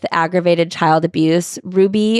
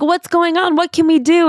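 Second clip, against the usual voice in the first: put-on much higher, fretful old-folks voice; worried grandparents; 11 semitones higher than usual. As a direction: squeak it out like anxious grandparents. Elderly grandparents asking anxiously.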